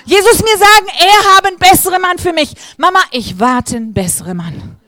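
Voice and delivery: high, loud, excited imitation of a refugee girl's broken German; imitating broken German. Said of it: "Sagt sie". (hoch und laut, gebrochenes Deutsch nachgeahmt)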